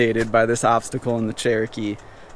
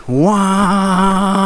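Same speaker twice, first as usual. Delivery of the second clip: high, squawky quack of a duck; 5 semitones higher than usual. Pretend. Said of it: "you guys wanna hear my duck impression?".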